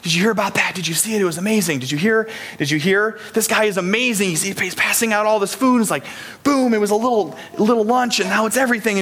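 buzzing, amazed onlookers swapping news; excited crowd chatter. Acted. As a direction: chatter like an impressed crowd spreading word. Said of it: "hear the buzz and the chatter".

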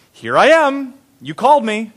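high, loud ready answer; eager boy. A narrator's reading. Samuel got up and went to Eli, eager boy.

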